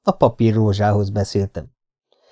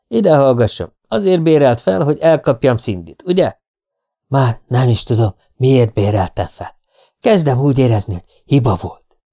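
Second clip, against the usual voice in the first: testy man on the telephone; irritated client; 2 semitones higher, 3 dB louder than usual. Acted. Client regrets hiring a detective, irritated. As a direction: challenge your hired man down the line.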